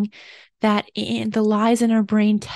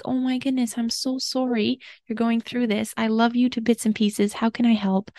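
tender comfort. Pretend. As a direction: soothe a friend having an anxiety attack. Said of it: "You're gonna be like".

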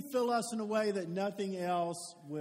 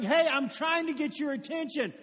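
loud, higher barker's holler; carnival barker yell; 4 semitones higher, 5 dB louder, slower than usual. Acted. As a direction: call the crowd to listen up. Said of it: "Somebody yelling".

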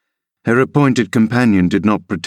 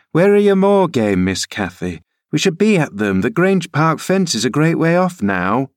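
lightly raised voice of the nurse Ellen; nurse calling after girl; 7 semitones higher than usual. Acted. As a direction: call out to the child ahead, a bit higher. Ellen calls to Cathy.

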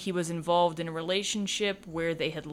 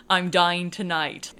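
mock dramatic quote; 4 dB louder than usual. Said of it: "I was almost cracking up".

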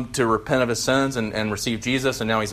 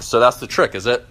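bitter mock shout. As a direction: sneer it out, half shouting. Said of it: "shouted the ghost, outwardly bitter".

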